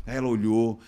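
normal talking voice

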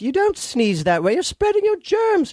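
mock British woman correcting a sneeze; imitating British woman. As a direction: scold like a fussy English lady, drawn out. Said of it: "a British woman was like".

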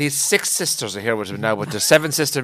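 rattled-off Gaelic match commentary; lightly voiced Irish commentator; Mícheál Murhurty. Telling another commentator gag to friends, Gaelic commentary. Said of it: "The Gaelic commentator".

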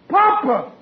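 high, startled exclamation; astonished cry. Acted. Son finds his father instead of the intruder, astonished cry. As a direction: blurt it out in shock.

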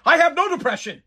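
mock a pampered celebrity complaining; mocking Michelle Obama. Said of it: "Michelle Obama bitch about how she has low grade depression".

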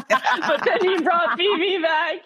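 high, loud, slow laughing delivery; helplessly amused confession; laughing through words. Real, not acted. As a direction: say it while cracking up. Laughing at own retold heartbreak.

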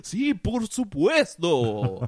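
slow Spanish vampire voice; Dracula voice. Acted. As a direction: drag it out like a count. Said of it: "Dracula was Salvi".

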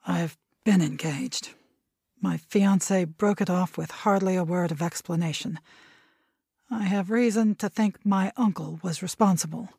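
hoarse gloomy reply from shadows. Acted. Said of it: "replied hoarsely and gloomily".

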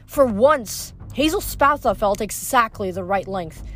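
lively audiobook narration; story narration. A narrator's reading. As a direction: read the chase like an audiobook. Reads novel chapter aloud.

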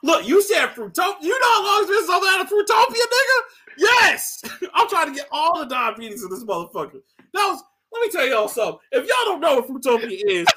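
loud, high excited hype; excited shouting. Real, not acted. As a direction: yell it with pure joy. Excited rant about Fruitopia.

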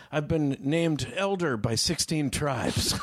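slow, solemn self-important elder; a hint of a grand guru, very slow; lightly mocked solemn elder, drawn out; pompous old man.

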